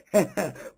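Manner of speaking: short, low scoffing laugh; brief mocking laugh; scornful chuckle. Real, not acted. Scornful laugh amid the rebuke.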